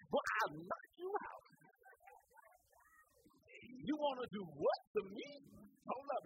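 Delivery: high, scolding father voice; a father cutting his son down; angry daddy. Retold or imitated. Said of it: "a daddy telling their son".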